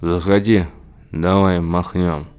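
put-on slow, slurred drunk invite; drunk slurring. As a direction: slur it like a tipsy neighbour. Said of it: "заплетающимся языком".

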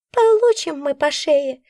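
high, slow lamenting creature voice; grumbling. A narrator's reading. Nora lamenting, high slow grumble. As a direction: complain about the trouble ahead. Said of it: "посетовала она".

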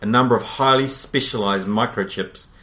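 slow, deliberate ad-copy read; product blurb reading. Acted. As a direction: read it like a dramatic product promo. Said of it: "I'm gonna try and read this".

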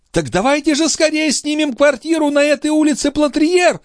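high-pitched, eager exclamation; urgent hurrying. A narrator's reading. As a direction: urge them on excitedly. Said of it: "заторопилась графиня".

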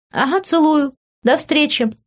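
high, tender sign-off; tender purr. A narrator's reading. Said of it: "нежно промурлыкала я".

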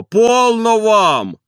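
high, loud, very slow plea; stop it. A narrator's reading. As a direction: stretch полно, high and loud. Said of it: "унимал дворник".

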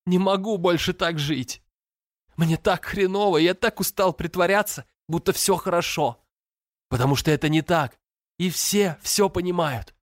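высокий, надломленный голос сквозь рыдания; выплачи каждое слово; рыдающий подросток. A narrator's reading. Брат рыдает в душе. (брат в отчаянии рыдает, срываясь)

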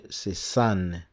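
"c'est san" with an open a vowel; pronounced san. Shown as a demonstration. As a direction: say "san" the way Americans say it. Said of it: "Mais quand on prononce".

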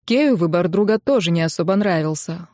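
usual speaking voice

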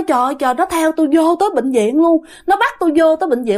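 hurried, half-acted fearful outcry; retold frightened outcry. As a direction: lightly act out a scared patient crying out. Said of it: "ổng la quá trời".

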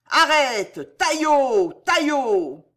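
loud high shouts after a fleeing man; hunters' shout. Acted. Killers chasing a fleeing man through the corridor, shouting. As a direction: yell the name as you chase him.

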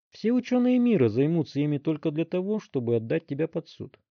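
ordinary delivery, nothing marked

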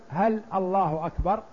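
هل الله أكبر؟ rising like a real question; asking tune. Shown as a demonstration. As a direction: ask it, rising on هل. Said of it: "تسأل".

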